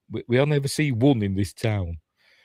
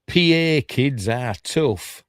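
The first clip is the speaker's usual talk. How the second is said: imitating Justin; 5 semitones higher, much slower than usual. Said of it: "Justin says".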